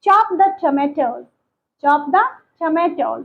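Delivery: slow, deliberate teacher model sentence. Shown as a demonstration. Teacher modelling a sentence slowly for learners. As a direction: say it slowly so students can repeat. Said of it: "इसे English में कैसे बोलेंगे?".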